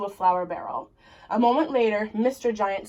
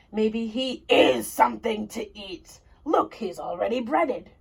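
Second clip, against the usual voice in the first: a hint of a gruff giant, longing; lightly voiced giant. Mister Giant longing for French fries, lightly voiced giant. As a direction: sigh it out as the giant.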